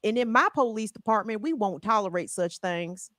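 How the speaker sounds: a hammed-up white Arkansas drawl; white Southern drawl. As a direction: play a white Southern sheriff with a lazy drawl. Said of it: "So I'm trying to give y'all my white".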